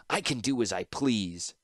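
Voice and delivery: slow, venom-laced retort; venomous. Acted. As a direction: drip venom on each word. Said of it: "venom in her voice".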